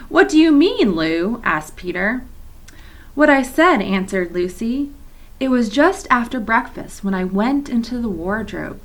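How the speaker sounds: put-on reading aloud to children, steady and clear; story narration. A narrator's reading. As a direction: read the chapter like a teacher at story time. Teacher reads novel to class.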